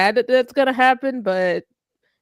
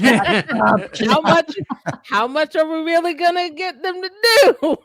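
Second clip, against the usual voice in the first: high, laughing, incredulous question; amused disbelief; 8 semitones higher, 4 dB louder, slower than usual. Real, not acted. Panelist joking to co-hosts that the actors are older men, laughing incredulously. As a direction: ask it through laughter, pitched up.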